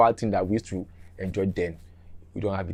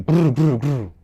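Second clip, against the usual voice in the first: engine noise; 4 semitones higher, 5 dB louder, slower than usual. Retold or imitated. Imitating engine starting.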